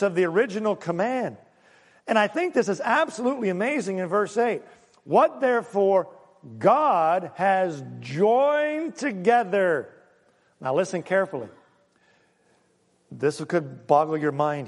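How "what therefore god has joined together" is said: slow scripture reading. Acted.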